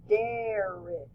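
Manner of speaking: "derrick" drawn out with a clear short E, dairr-ick; audible short E. Shown as a demonstration. Teacher contrasting derrick with butter, slow, clear short E. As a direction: say "derrick" slowly so the E before R is heard. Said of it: "you can actually hear the E in this one".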